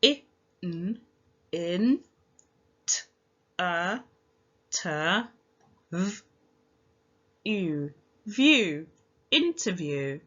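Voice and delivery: each sound of interview said apart, then blended; sounding out letters. Shown as a demonstration. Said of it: "Let's use our sounds".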